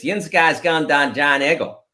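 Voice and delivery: lightly voiced Pittsburgh Yinzer phrase, "Dan" for down; a mild Pittsburgh accent demo. Shown as a demonstration. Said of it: "the classic Pittsburgh expression is".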